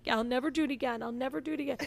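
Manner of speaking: mock child's earnest promise; contrite child. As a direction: lightly imitate a sorry little kid. Daughter's promise retold.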